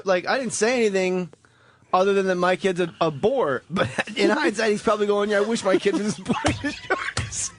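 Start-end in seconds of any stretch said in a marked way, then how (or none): 5.3-7.5 a hushed, unvoiced aside; mock whisper. Guest muttering to host, mock whisper. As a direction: whisper it like a sly put-down.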